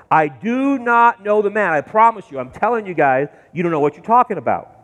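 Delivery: emphatic oath, hurrying at the end; sworn denial. Acted. Peter swears an oath to bystanders, mild insistent denial. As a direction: insist firmly, then rush it off. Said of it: "he swears, he promises an oath".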